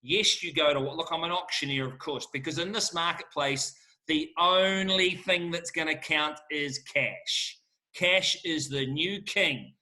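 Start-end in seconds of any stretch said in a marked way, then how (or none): 4.1-9.8 really leaning into every word; fired up. Real, not acted. Auctioneer telling sellers to chase cash, fired up. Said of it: "sorry, I'm getting fired up".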